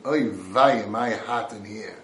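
a whiny Yiddish kvetch, lightly put on; mock complaining. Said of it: "Doesn't stop complaining".

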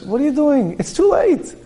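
high, scornful too-late taunt; taunting tempter. Acted. Evil inclination mocking an older man, high scornful taunt. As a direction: rub in that the chance is gone. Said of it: "the H R comes over you and says".

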